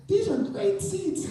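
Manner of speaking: very high, slow, impressed voice; high amazed usher. Retold or imitated. Next usher reads the tickets, very high and amazed. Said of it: "and says".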